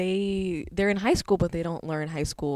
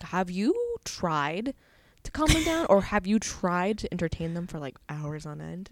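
exasperated. Retold or imitated. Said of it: "I'm just like".

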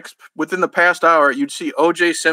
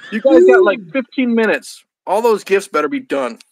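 warning; 4 semitones higher, 4 dB louder than usual. Acted. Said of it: "Santa warns the elves".

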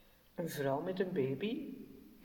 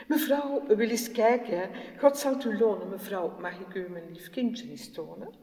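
raised, pleading mother voice; humble pleading mother; 2 semitones higher, 3 dB louder than usual. Acted. Mother begs the film star.

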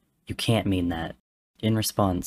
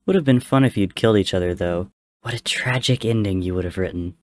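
loud, fast, gleeful mockery; mocking taunt; 7 dB louder than usual. The green god taunts the family, loud and mocking. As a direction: relish their near tragedy.

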